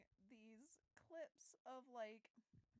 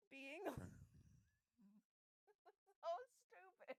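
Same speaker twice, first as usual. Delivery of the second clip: laughing; 5 semitones higher than usual. Real, not acted. Laughing at a dumb app story.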